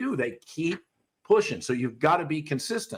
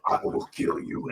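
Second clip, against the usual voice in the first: whispered threat; menacing whisper. Retold or imitated. Trainer mocking a handler threatening the dog, whispered. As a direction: hiss the threat under your breath. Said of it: "you can't be like".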